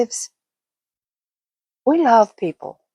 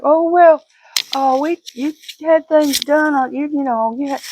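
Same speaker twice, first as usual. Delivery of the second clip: mock protest; 6 semitones higher than usual. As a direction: imitate someone protesting, pitched up. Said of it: "Now you're like".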